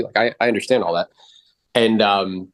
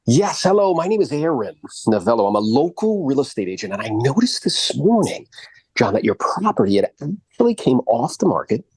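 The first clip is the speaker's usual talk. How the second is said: the salesman voice. Shown as a demonstration. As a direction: put on the show voice the kids ask for. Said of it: "Do the voice".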